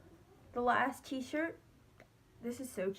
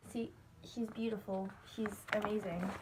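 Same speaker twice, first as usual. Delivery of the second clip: whispering; 3 semitones lower, 5 dB quieter than usual. Real, not acted. Admiring poster, unvoiced.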